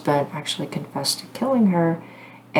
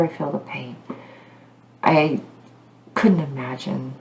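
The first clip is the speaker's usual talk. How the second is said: heartfelt; 3 semitones lower than usual. Real, not acted. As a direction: let the words sink, as a mother. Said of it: "As a mother".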